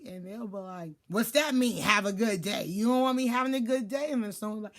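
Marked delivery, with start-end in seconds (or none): 1.1-4.1 mildly offended, louder comeback. Acted. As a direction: push it out like a touchy challenge. Acted offended reply to greeting.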